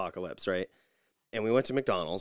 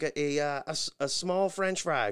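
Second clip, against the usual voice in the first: higher, stammering mock voice; a hint of flustered Nikki; 7 semitones higher, 3 dB louder than usual. Wife fumbles the order, lightly voiced and stammering. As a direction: stumble over the order. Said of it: "She's like".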